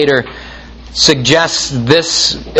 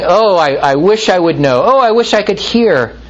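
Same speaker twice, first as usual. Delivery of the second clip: higher, whiny sighing wish; sighing moaner; 4 semitones higher, faster than usual. Retold or imitated. Preacher mimics the willfully deaf sighing, whiny. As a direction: moan it like a reluctant hearer.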